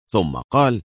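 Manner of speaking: plain reading voice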